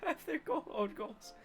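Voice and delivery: put-on high, soft shy girl voice; anime girl voice. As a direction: play a timid anime schoolgirl. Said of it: "I'm trying to be the best girl voice I got".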